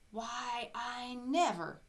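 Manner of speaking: high, slow, astonished; surprised exclamation. Acted. Elna hearing she won a fridge, astonished. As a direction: gasp it out in delighted disbelief. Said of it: "exclaimed Elna".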